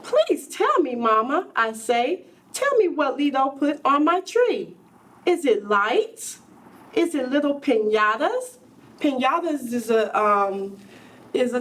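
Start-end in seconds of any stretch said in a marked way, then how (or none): 0.0-8.6 put-on pleading child. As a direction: plead like a child who can't wait. Child begs mother for secret.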